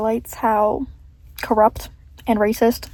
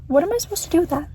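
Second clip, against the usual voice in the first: exasperated; 4 semitones higher, faster than usual. Real, not acted. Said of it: "a pet peeve of mine".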